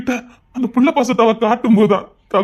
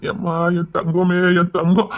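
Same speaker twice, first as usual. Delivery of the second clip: tender soothing; 4 semitones lower, slower than usual. Acted. Father soothing his little daughter.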